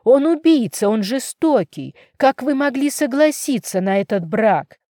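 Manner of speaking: shouting. Acted. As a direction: scream it at the parents. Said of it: "Её крик эхом разнёсся". (дочь кричит на родителей, отчаянно и громко)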